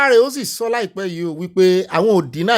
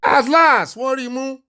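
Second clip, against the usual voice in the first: triumphant; 6 semitones higher, slower than usual. Real, not acted. Commentator gloats at the panel.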